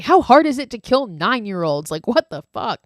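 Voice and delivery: mock indignation with a touch of real bite; retold pissed-off. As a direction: imitate an annoyed boss griping. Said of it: "And he's pissed".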